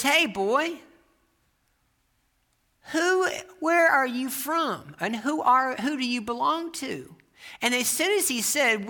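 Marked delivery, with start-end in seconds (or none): 0.0-7.1 high, slow, drawn-out challenge; preacher questioning boy. Retold or imitated. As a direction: call the boy out with pointed questions. Old preacher questioning boy, acted out.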